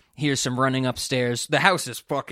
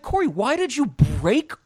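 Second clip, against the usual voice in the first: mock angry parents; 5 semitones higher than usual. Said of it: "Be like".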